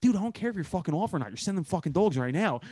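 quick Philly-accented cop impression. Co-host quoting his favourite line from the show, so-Philly accent. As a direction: rattle it off in a dead-on Philly accent. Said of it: "one moment that was so Philly".

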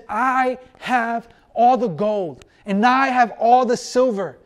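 slow, measured divine claim; voice of God. Retold or imitated. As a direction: speak as God, unhurried and sure. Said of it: "he says".

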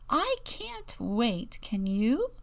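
high, stretched-out squeak of anticipation; squeaky. A narrator's reading. Eager penguin chick to a new classmate, squeaking. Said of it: "she squeaked".

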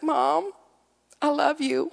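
put-on high-pitched small child; lightly imitated little kid; little boy. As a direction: voice a four-year-old sweetly addressing mom. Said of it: "He's a little fella. He's probably four".

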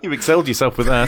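said through laughter; laughing. Real, not acted. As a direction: laugh while speaking.

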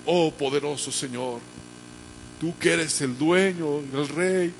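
slow, drawn-out mock grandiose prayer; showy public prayer. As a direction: pray for the whole crowd to hear. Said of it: "queremos que nos escuche toda la gente". (oración pomposa, lenta y ostentosa)

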